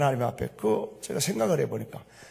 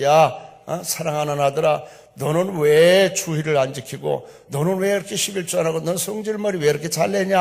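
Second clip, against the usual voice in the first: mildly scolding voice, a little raised; retold rebuke; 5 dB louder than usual. Preacher voices tongues' interpretation rebuking himself, mildly scolding. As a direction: scold a beloved son, drawing out the why. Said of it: "책망하고 있어".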